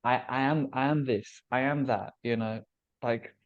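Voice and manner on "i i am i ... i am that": measured, slightly softened statement of being; centered declaration. Acted. Speaker voicing consciousness knowing its own nature, centered declaration. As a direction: say it evenly, as a calm truth. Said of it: "we're both saying the same things".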